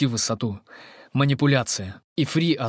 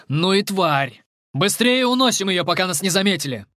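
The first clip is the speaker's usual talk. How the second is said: urgent commands; 7 semitones higher, 3 dB louder than usual. Acted. Commander urges hurry.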